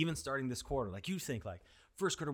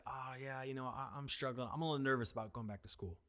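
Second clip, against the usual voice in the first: put-on nervous teen; 3 semitones lower, 5 dB quieter than usual. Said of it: "he's like".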